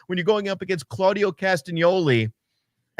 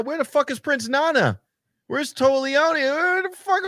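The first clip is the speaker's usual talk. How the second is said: high-pitched incredulous demand, climbing higher; exasperated rant; 9 semitones higher than usual. Real, not acted. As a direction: demand answers, voice rising with each question. Ranting about missing wrestlers, cuts out.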